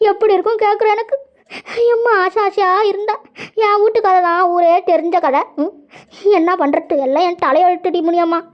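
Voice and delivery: mildly weepy self-pity; acted sorrow, on the edge of tears; tearful lament. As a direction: bemoan your lot to a friend. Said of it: "ஏன்டா அழுவுற".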